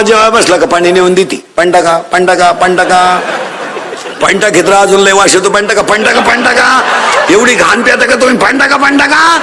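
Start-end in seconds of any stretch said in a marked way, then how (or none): 1.6-9.4 repetitive nagging, climbing steadily in pitch; chanted nag that keeps rising; mock badgering. Acted wife badgering husband about water.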